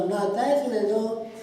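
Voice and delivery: put-on a child insisting he's grown; little son proudly answering his dad; proud little boy. Son voiced in story.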